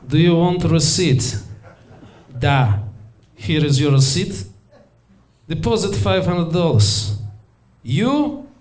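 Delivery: deadpan Russian machine, spaced out; ATM talking in a flat Russian accent. Acted.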